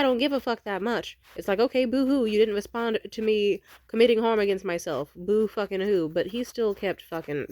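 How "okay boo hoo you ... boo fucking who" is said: mocking boo-hoo. Mocking his self-pity.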